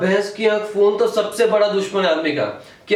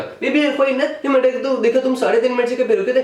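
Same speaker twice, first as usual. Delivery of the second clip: higher-pitched mock girlfriend on the phone; mimicked girlfriend; 4 semitones higher than usual. Girlfriend phoning to check on his stop, mimicked higher. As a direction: lightly imitate a girlfriend checking up.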